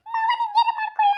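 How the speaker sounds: high, bright-voiced eager offer to father-in-law; cheerful offer. Shown as a demonstration. Daughter-in-law cheerfully offering to serve her father-in-law, sweetly eager. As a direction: chirp it happily like a dutiful daughter-in-law. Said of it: "ಅಂತ ಖುಷಿಯಿಂದ".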